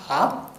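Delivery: "A" said with the mouth wide open. Shown as a demonstration. Speaker explaining the Portuguese accent mark, wide-open "A". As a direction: open right up on the vowel "A". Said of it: "Mund beim Sprechen weit aufmachen".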